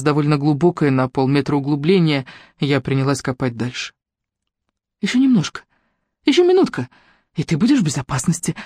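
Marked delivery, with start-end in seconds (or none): 5.0-8.5 put-on whispering to a baby. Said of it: "шептала я ребёнку".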